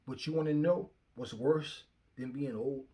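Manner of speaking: ordinary delivery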